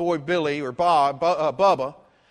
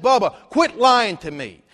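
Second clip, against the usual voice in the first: louder, firm scolding; stern rebuke; 2 semitones higher, 7 dB louder than usual. Retold or imitated. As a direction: call him out sharply. Preacher confronting lying Bubba.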